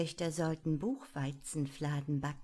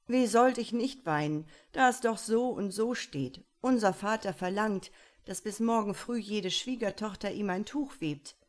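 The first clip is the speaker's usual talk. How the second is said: louder, higher lament of a miserable prince; tearful Iwan; 3 semitones higher, 5 dB louder than usual. Acted. Iwan pleading to his father, loud tearful lament. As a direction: complain it out, close to tears.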